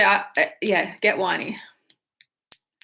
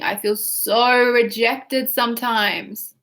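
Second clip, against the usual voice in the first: slow, drawn-out whine; whiny repeat of the demo; much slower than usual. Shown as a demonstration. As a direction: stretch every word in self-pity. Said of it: "we wanna get whiny".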